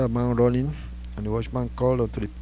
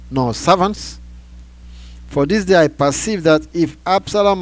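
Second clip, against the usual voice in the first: loud, raised voice, building in force, easing at the end; stern rebuke; 5 semitones higher, 7 dB louder than usual. A narrator's reading. Joab reproaches the king for shaming his servants, forceful rebuke. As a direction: hammer the reproach home, loud and high.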